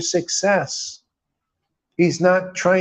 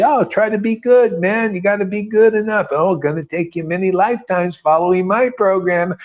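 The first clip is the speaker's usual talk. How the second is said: higher, faster mock guru lecture; mocking Narayan Maharaj; 5 semitones higher than usual. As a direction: parody a preachy guru, pitched up and hurried. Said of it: "everything Narayan Maharaj says".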